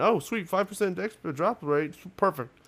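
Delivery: sarcastic. Retold or imitated. Mocking a useless game perk.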